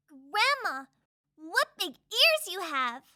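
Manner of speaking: slow, drawn-out marvelling; wondering little girl. Acted. Red Riding Hood puzzled by Grandma's looks, slow wonder.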